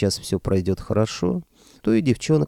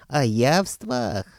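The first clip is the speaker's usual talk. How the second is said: slow, raised incredulous roar; outraged roar; 4 semitones higher, much slower than usual. A narrator's reading. Sorcerer scolding the others about food, roaring. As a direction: draw it out in indignant disbelief. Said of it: "взревел лиховид под люстрой".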